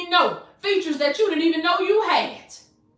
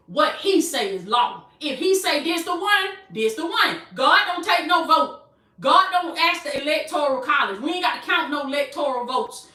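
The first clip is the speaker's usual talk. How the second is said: emphatic, rhythmic preacher cadence; impassioned preaching in building refrains; full-force preaching. Real, not acted. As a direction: drive each repeated phrase home to the congregation.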